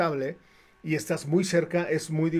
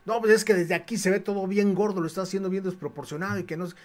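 higher, cocky scolding of the painter's work; mock the gym owner's haughty nitpicking; arrogant complaint; 4 semitones higher, faster than usual. Gym owner sneering at the painter's sign, mildly arrogant. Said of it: "Pero muy altanero".

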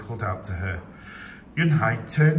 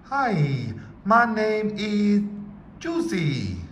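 slow, higher mouth-full voice; 9 semitones higher, 3 dB louder, much slower than usual. A narrator's reading. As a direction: talk through a mouthful of toothpaste. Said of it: "with her mouth full of toothpaste".

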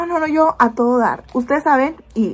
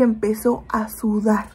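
hushed, breathy whisper on the worry; 4 dB quieter, slower than usual. Real, not acted. Mother telling followers of feverish son, whispering. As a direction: drop to a whisper as if by his bed.

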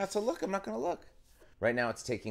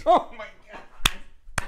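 slow, high, amazed; drawn-out amazement; 9 semitones higher, 5 dB louder, much slower than usual. Real, not acted. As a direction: stretch it out in disbelief. Amused disbelief, drawn out.

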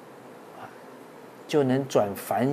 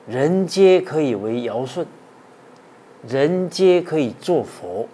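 slow, loud, drawn-out recitation of the couplet; measured chanting of a classical verse; 3 semitones higher, 7 dB louder, slower than usual. Acted. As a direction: declaim each word slowly like scripture.

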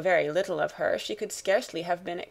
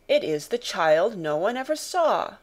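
exclaimed. Acted. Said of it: "exclaimed the man".

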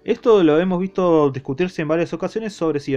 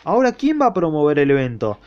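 mocking; 3 semitones higher than usual. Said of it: "Sotomura se le burla y dice".

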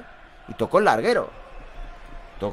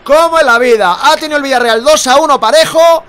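aún eufórico; 11 semitones higher, 11 dB louder than usual. Real, not acted. Comenta el gol todavía emocionado.

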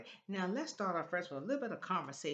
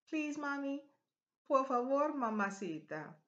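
high sing-song wheedle; mock child's plea; playful pleading; 8 semitones higher than usual. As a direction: beg mommy for a favour. Acts out child begging mommy.

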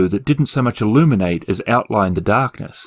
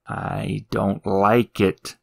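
grumbling imp voice; 3 semitones lower, 5 dB quieter, much slower than usual. Acted. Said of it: "said the picture imp".

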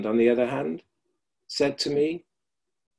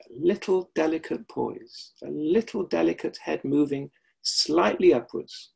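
gentle guiding voice; 3 semitones higher than usual. Retold or imitated. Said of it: "Marjorie Barstow would say".

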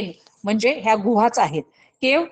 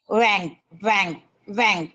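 pig oink; 2 semitones lower, slower than usual. Shown as a demonstration. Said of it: "त्याचा आवाज कसा येतो".

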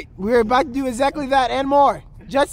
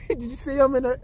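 laughing; 4 dB quieter than usual. Real, not acted. Laughing hard watching.

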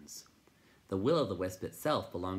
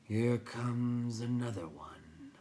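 very slow creature voice, pitched up; crackling; 4 semitones higher, much slower than usual. A narrator's reading. Rock Chewer spots a newcomer, slow crackle. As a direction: drag out each word as a crackling creature. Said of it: "he crackled".

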